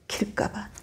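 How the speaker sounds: soft whispered echo of 길가밭; hushed emphasis; whispered repeat. Shown as a demonstration. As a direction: breathe the word 길가밭 softly. Pastor whispers the key word.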